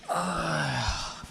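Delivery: drawn-out sighing uh; weary groan. Real, not acted. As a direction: let out a drawn-out tired groan. Pauses between topics.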